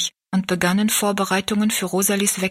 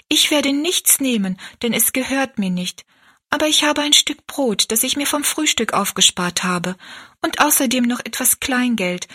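lightly voiced girl, higher and resolute; steady little girl's conviction; young girl; 4 semitones higher than usual. Rosalie tells Betty Ann she'll manage, resolute. Rosalie explains her provisions.

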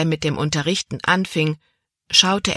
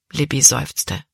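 ordinary delivery

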